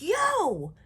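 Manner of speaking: loud, high yell at the door; sharp shout. Retold or imitated. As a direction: bark it to stop him. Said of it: "and I'm like".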